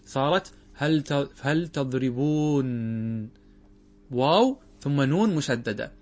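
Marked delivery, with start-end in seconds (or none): 1.4-3.3 هل تضربون said very slowly, stressing هل and lengthening تضربون; slow spelled-out form. Shown as a demonstration. Grammar teacher showing students the verb after the nun is dropped, very slow. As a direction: stretch هل تضربون so each sound is clear. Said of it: "فماذا صارت بعد أن حذفنا النون".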